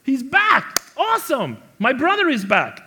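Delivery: high, happy mock cheer; imitating delight. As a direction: act out a brother's glad surprise. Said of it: "you go".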